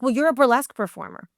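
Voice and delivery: quick, dismissive quoted retort; lightly imitated impatient producer; retold accusation. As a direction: toss it out as if it settles the argument. Producer's argument, answered with emphasis.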